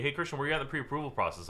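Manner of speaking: mock sales-pitch grilling; salesy question. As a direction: rattle it off like a pushy agent. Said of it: "somebody asked me".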